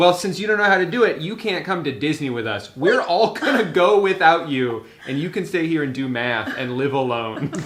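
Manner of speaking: mocking parent.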